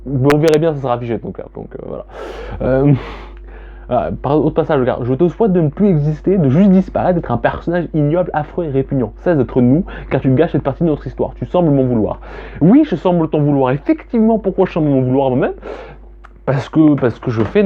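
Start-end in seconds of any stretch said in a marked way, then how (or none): 5.0-12.2 poem reading. Acted. Quoting her poem's harsh lines to the camera, recited. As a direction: recite it as if speaking to yourself. Reads another poem passage.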